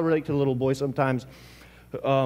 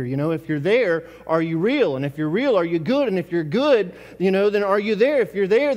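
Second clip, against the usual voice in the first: frustrated prayer; 2 semitones higher than usual. Retold or imitated. Voicing a doubting prayer.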